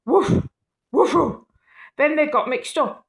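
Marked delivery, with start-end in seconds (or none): 0.0-1.4 high, loud playful woofs; dog barking. Acted. Skeleton dog barking after being put together. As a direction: bark like a happy little dog.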